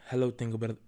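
rough mock Scottish; attempted Scottish accent. Host trying a new accent, half-managed Scottish. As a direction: have a clumsy go at Scottish. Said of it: "a right Scottish accent".

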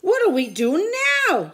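high, loud cry; panicked yell. A narrator's reading. Pirate panics after the mast splits: loud yell. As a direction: shout it over the storm. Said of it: "yelled one of the pirates".

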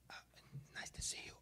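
reply in a hushed whisper. Shown as a demonstration. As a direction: whisper back, caught off guard. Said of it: "start whispering immediately".

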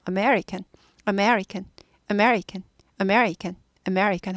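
American with only MER standing out; weak start, strong me, falling end in American; stress on me. Shown as a demonstration. Teacher repeating for learners, stressed-me American. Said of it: "매만 들리면 돼요".

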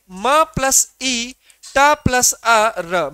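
"म ... ई, ट ... अ, र" slowly, sound by sound; separate, deliberate sounds with the "ई" held longer. Shown as a demonstration. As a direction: break "मीटर" into its sounds, leaning on "ई". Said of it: "जब मैंने मीटर pronounce करा".

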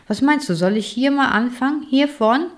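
a small bookworm keen to start digging; eager bookworm. A narrator's reading.

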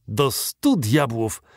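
slow, drawn-out mild curse; astonished swearing, drawn out; exclaimed oath. A narrator's reading. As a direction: exclaim it slowly, stretching the words. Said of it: "zawołał".

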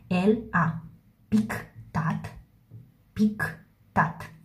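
whispered dictation while writing. Shown as a demonstration. Teacher writing on the board, whispered aloud. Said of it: "teacher whispers while writing".

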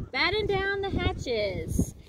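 slow, high shouted order; storm order. Acted. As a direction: command the crew slowly. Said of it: "Braid Beard shouted".

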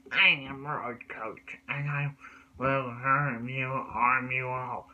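slow, drawn-out lightly voiced villain; villain threat. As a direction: drag it out like a cartoon baddie. Villain Roach Coach threatens girls.

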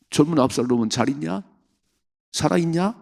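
a hint of a worried king, rising; lightly voiced anxious father; anxious father asking. Preacher voicing David asking after his son, a hint of worry.

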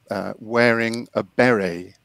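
normal talking voice

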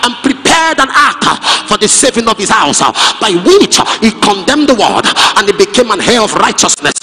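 fervent sermon delivery, rising and ringing; preaching at full force. Acted. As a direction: preach it out to the congregation. Preaching with music behind.

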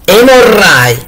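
husband condemns his wife; slow verdict. A narrator's reading. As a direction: pronounce her fate word by word. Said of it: "le disse il marito".

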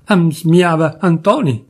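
put-on slow Turin-accent musing; muttered Turin dialect. Drunk cousin musing to himself, Turin dialect. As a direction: mumble it to himself in Piedmontese.

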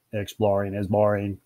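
lightly voiced monotone alien; hint of a listless alien voice; bored alien. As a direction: drone it with no interest.

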